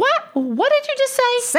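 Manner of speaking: high, stunned what did you say; shocked disbelief. Acted. Daughter shocked by crude remark.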